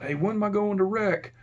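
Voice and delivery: half-hearted holler for attention; mock inmate holler. Inmates asking the officer about rec, mildly hollered imitation. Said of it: "inmates would holler out".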